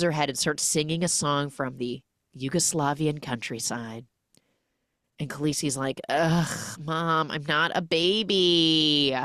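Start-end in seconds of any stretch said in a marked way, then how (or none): 6.1-9.2 put-on whiny teen. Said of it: "type energy".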